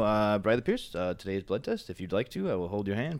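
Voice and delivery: low, soft, lightly British imitation; Norman Smiley's British voice. Colleague pulls him aside before the blood test, lightly British voice. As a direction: make a discreet offer with a hint of British formality. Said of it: "but in a British voice".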